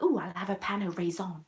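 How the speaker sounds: "raisin" as effortful ray-ZON; imitated customer attempt. Customer trying hard to order, "raisin" as ray-ZON. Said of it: "they were trying really hard".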